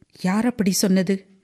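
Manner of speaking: ordinary delivery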